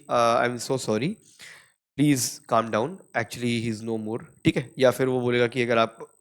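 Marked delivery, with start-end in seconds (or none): 0.4-4.2 soft, slow, sorry tone; gentle sympathy. Retold or imitated. Doctor breaking news of a death gently, softly. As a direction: ease the bad news gently. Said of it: "But अगर वो बोलेगा कि".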